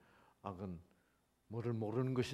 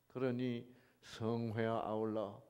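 ordinary delivery

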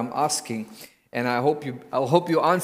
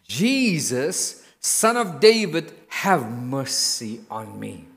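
pleading cry that sinks to a slow hush; blind man crying out; slower than usual. Acted. Blind beggar calling to Jesus, pleading. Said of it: "he began to cry out and say".

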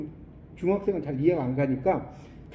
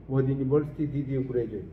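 slow, clear English question; slow model reading; 4 semitones lower, much slower than usual. Shown as a demonstration. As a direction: read it slowly for students. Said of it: "model reading". (천천히 읽는 영어 질문)

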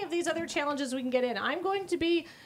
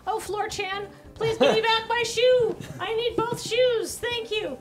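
loud, slow, higher begging plea; pleading with the floor; 5 semitones higher, 4 dB louder than usual. Pretend. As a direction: beg the floor loudly for the shoe.

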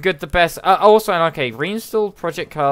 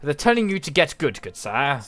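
put-on British accent; 3 dB quieter than usual. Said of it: "in the British accent".

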